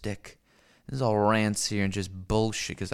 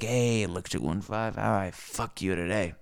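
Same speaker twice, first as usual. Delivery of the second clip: mocking world voice; 3 semitones lower than usual. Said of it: "the world is like".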